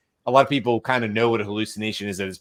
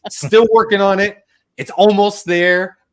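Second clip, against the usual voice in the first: upbeat chatbot reply; 9 semitones higher, 9 dB louder than usual. Retold or imitated. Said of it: "it was convincing".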